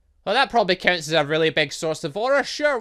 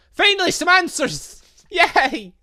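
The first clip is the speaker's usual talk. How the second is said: high, loud, laughing joy; thrilled cheer; 14 semitones higher, 9 dB louder, slower than usual. Real, not acted. Gamer cheering as the boss finally explains, high and loud. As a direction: cheer like the mystery is finally cracking. Boss starts giving answers.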